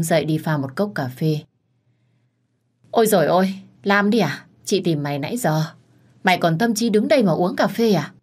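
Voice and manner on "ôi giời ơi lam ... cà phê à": lightly voiced bossy senior colleague, exasperated; scolding older colleague. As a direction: nag her like a bossy big sister.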